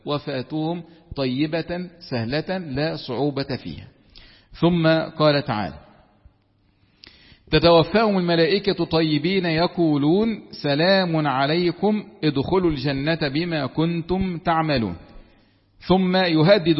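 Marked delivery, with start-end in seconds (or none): 0.1-3.9 slow and much softer, trailing to a hush; quiet, slow, fading read of the verse; soft fading recitation. Shown as a demonstration. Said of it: "repeat of the quote". 7.5-15.0 slow, measured recitation of a verse; Quran recitation. Acted. Quran recitation within lesson.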